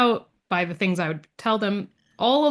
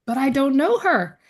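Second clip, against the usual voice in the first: higher, louder mock protest; bewildered protest; 6 semitones higher, 5 dB louder than usual. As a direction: act out a helpless objection. Retells protesting the healer's test.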